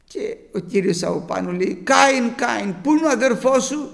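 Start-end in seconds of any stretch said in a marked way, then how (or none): 1.8-3.9 raised, higher call across a distance; God calling out. Acted. God calls Cain to account, loud and high. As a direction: call the name like a summons from above.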